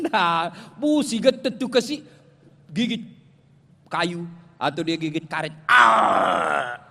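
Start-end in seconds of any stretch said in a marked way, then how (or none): 5.7-6.8 loud, drawn-out mock groan of pain; hammed-up labour groan; imitated labour scream. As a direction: strain out a long, loud birthing cry.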